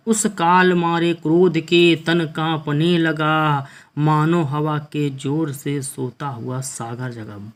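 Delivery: slow, measured verse recital; poem recitation. Acted. Teacher reciting a Hindi verse to students, slow poem recitation. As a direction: draw each line out like a poet on stage.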